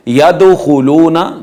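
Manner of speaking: यदखुलूना slowly, bouncing the d; qalqalah. Shown as a demonstration. Teacher demonstrating the rule, qalqalah. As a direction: give the d of यदखुलूना a small echo. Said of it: "दाल के ऊपर कलकला किया जाएगा".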